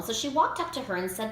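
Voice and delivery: ordinary delivery, nothing marked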